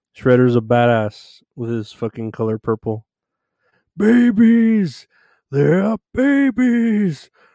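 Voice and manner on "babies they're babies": shrill, very high, loud villain screech. Showing Shredder's reaction when he finds out about Toka and Rezar: Shredder impression. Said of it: "That's my impression of Shredder".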